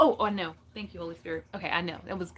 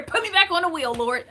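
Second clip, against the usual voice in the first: playful plea; 7 semitones higher, 6 dB louder than usual. Retold or imitated. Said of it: "I be saying in prayer".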